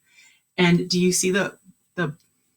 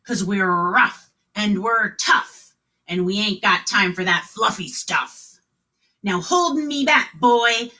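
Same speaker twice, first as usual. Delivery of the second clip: gruff pirate scolding. Acted. Pirate driver tells the crying kids to pipe down. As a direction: bark at the landlubbers.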